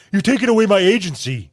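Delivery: sneering parody of the phrase; mock the phrase as pretentious; mocking quote. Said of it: "who talks like that?".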